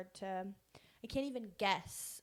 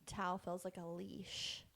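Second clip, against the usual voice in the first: slow dreamy quote; slower than usual. Retold or imitated. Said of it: "and she said".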